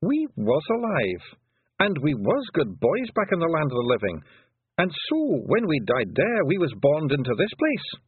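high, slow Scottish pixie voice, untroubled; a wee Scots fighter shrugging off death; Scots pixie warrior. A narrator's reading. Rob Anybody shrugging off death to Tiffany, high Scots pixie voice.

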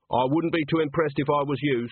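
mildly sour put-down. Acted. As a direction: dismiss it with a touch of sourness. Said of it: "said Agnes sourly".

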